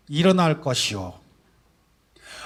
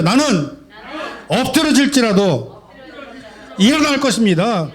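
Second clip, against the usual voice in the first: even stronger declaration; 4 semitones higher than usual. Real, not acted. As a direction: proclaim it with more force, breaking into a laugh. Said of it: "더 힘차게 한번 해볼까요?". (더 힘차게 웃으며 외치는 선포)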